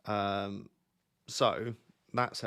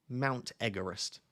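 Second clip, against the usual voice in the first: MOUNT EVEREST drawn out slowly as "Mount Egg-erest"; slow, deliberate repeat; 3 dB quieter, slower than usual. Real, not acted. Streamer repeats his girlfriend's nickname for chat, slow and deliberate.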